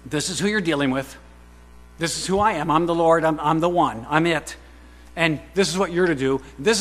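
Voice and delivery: thundering divine declaration; God's declaration. Acted. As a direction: proclaim it as the Lord himself. Speaking as God, rising force.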